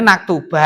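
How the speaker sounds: "naktuba" ending in an open a instead of u; wrong a ending. Shown as a demonstration. Teacher quotes students' faulty reading, wrong a ending. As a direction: finish "naktuba" on -ba. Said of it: "Nggak ada penasab kok bacanya".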